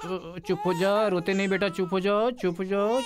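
put-on hushing a crying baby.

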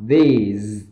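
"these" with tongue at teeth, buzzing Z ending; voiced Z in THESE. Shown as a demonstration. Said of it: "âm Z đằng sau". ("these" đặt lưỡi ở răng, cuối là âm Z)

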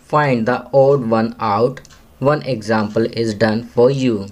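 very slow, word-by-word English read aloud; slow classroom reading. Shown as a demonstration. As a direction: read it slowly for young pupils to follow. Reads question slowly. (बच्चों के लिए बहुत धीरे-धीरे अंग्रेज़ी पढ़ना)

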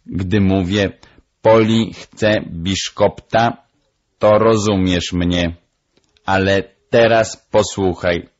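deliberate, emphatic parrot voice; demonstrating parrot. Acted. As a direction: explain it like a bird teacher. Parrot demonstrates her two languages.

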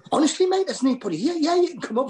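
high, indignant pleading; insisting nobody's there, voice way up; high flustered denial on the phone; protesting innocence. Retold or imitated. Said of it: "And I'm going".

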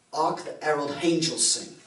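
mock Cockney carol line, "Herald" said with a sounded H; lightly imitated Cockney that adds an H to "Herald"; mock Cockney accent. Grandmother's theatre crowd singing the carol in mock Cockney. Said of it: "That's Cockney".

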